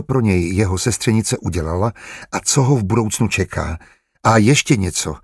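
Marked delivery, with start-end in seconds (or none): 4.2-5.2 "A ještě něco" added with mild firm emphasis; "A ještě něco" said deliberately, to hold attention; emphatic. A narrator's reading. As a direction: make "A ještě něco" a firm, pointed addition. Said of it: "dodal na konci svého proslovu důrazně".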